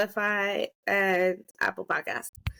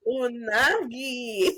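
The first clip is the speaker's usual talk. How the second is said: slow word through laughter; laughing; much slower than usual. Real, not acted. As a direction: drawl it while laughing.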